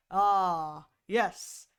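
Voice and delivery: mock suave general, low-ish; lightly deep silky man. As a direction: lightly mimic a suave commander. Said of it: "deep, silky, smooth S kind of male voices".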